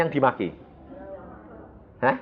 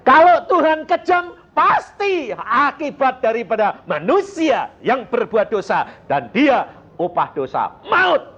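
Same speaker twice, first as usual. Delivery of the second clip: raised, high-pitched sermon delivery; emphatic preaching; 12 semitones higher, 4 dB louder, slower than usual. Real, not acted. Preacher answers the charge that God is cruel, emphatically. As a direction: drive the point home from the pulpit.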